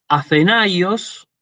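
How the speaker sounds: "Athenaios" slowly, stressing the A of "ai"; diphthong stress demo. Shown as a demonstration. Teacher models an example word for students, diphthong stress demo. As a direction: draw out "Athenaios", stress on the A before the I. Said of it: "pronuncian en la primera".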